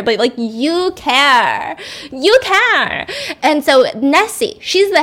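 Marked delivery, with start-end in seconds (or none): 0.0-3.1 mock admiring nurses; adoring praise. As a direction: gush the repeated you care.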